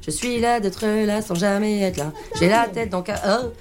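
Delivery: slow, measured slam delivery; slam poetry. Acted. Léa recites her own slam piece, slow slam poetry. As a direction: recite it as slow rhythmic spoken word.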